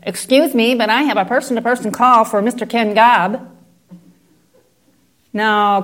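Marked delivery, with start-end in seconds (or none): 0.0-3.5 courteous operator's request; lightly voiced patient operator; polite operator. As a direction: ask for him politely, like a phone operator. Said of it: "The operator on the other end says".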